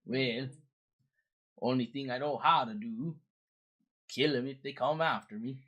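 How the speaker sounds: put-on Swedish-Canadian accent; lilting Swedish-Canadian character voice; Credence. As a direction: play a folksy Swedish-Canadian boatman. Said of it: "I'm good old Swedish Canadian".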